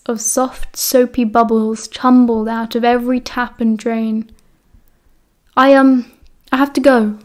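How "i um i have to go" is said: grinning. Acted. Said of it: "Remus grinned".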